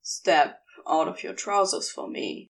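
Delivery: a touch of gentle command. Acted. Crowley gently instructing his angel, mildly tender. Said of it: "Crowley tells him gently".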